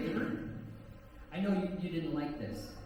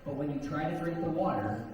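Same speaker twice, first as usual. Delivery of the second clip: hypnotic suggestion; 3 semitones lower than usual. Acted. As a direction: keep the trance suggestions rolling. Hypnotist induction over crowd noise.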